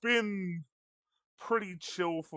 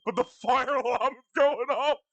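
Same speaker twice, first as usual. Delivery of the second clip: laughing; 7 semitones higher, 4 dB louder than usual. Real, not acted. Laughing at the fire alarm.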